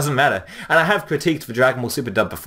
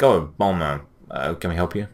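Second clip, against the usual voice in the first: lower, fading "Oh, Bulma, can we help you?"; a hint of bored indifference; unimpressed; 3 semitones lower than usual. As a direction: greet her like she doesn't matter. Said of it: "doesn't sound like they're really amazed".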